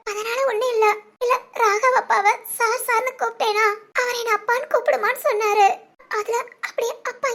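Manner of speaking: talking through tears, voice wet with crying; young woman explains her tears to a concerned friend, crying; tearful. Acted. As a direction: hold back sobs while explaining to a friend. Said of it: "சரி, அழாத".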